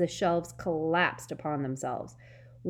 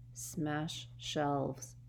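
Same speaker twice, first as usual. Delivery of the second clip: hissed; 2 semitones lower, 8 dB quieter than usual. A narrator's reading. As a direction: hiss it barely moving lips. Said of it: "Harry hissed to Hermione".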